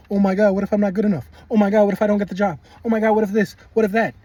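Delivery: hammed-up fretting self-doubt; mock anxious inner voice. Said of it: "That is the old you".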